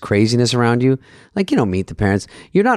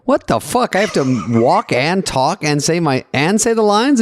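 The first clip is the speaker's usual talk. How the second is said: shocked disbelief; 6 semitones higher, slower than usual. Retold or imitated. Retold panic at director.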